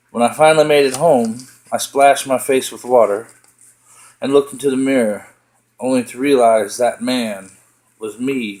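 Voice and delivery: narrative poem recited in measured phrases; spoken-verse storytelling with deliberate breaks; poetry reading. Acted. Reads own poem aloud.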